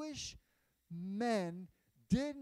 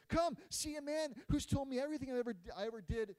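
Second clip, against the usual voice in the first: excited call; 3 semitones higher, 4 dB louder, faster than usual. Acted. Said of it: "She's maybe yelling".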